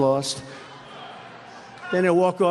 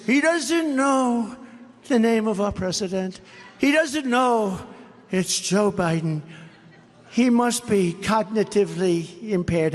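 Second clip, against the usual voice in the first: mocking the press; 2 semitones higher, slower than usual. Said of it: "the fake news says".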